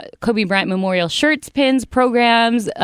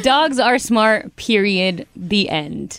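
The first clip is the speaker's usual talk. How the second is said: slow, deliberate emphasis, dropping to a final close; emphatic declaration; much slower than usual. Real, not acted. Radio host settling that dogs are smart, emphatic declaration. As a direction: state it slowly as the last word on it.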